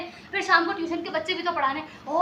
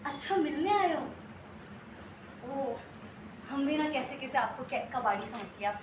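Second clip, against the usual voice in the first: softer, sheepish realisation; embarrassed; 4 semitones lower, 10 dB quieter than usual. Acted. Woman realises she mistook her visitor for junkman, sheepish. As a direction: trail into a quiet, awkward apology.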